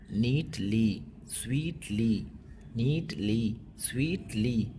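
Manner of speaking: नीटली and स्वीटली evenly, with matching endings; even-toned demonstration. Shown as a demonstration. Teacher showing pupils that नीटली and स्वीटली rhyme, in an even tone. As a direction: say नीटली, स्वीटली level, each ending alike. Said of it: "कोई उतार या चढ़ाव नहीं है".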